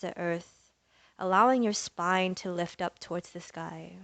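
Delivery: soft, unhurried yoga teacher voice; yoga breathing guidance. Acted. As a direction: guide them gently into the breath with long pauses. Leads breathing and centering practice.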